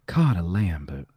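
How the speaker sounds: Cotta Lambert in a light Southern drawl; Southern accent. Shown as a demonstration. Friend trying the Southern accent on request. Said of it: "Say it with a Southern accent".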